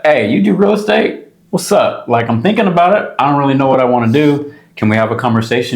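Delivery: mock eager recap of the first call, pitched high; eager retold question. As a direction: gush like a newcomer asking for help.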